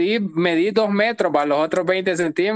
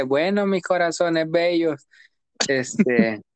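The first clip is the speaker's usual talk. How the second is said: Ña Yanira impression; slower than usual. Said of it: "la Ña Yanira la que dice".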